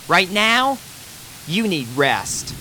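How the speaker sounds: high then settling, caring; gentle firm pony. Acted. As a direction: tell the pups to rest. Rainbow to pugs.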